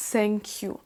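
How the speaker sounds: "thank you" with S in place of TH; French learner's "thank you", starting on S; TH replaced by S. Shown as a demonstration. Teacher shows the French speakers' substitute, "thank you" begun with S. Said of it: "le son qui ressemble le plus".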